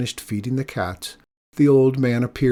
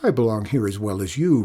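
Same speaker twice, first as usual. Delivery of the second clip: retort. Acted. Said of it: "retorted Mikola".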